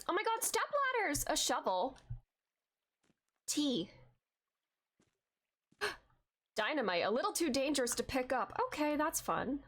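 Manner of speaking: usual speaking voice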